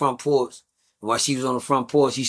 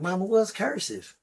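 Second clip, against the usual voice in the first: put-on higher, softer, slow puzzled kid asking his mom; confused kid; 7 semitones higher, 5 dB quieter than usual. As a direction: play a clueless child, slow and high. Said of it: "the nigga looking like".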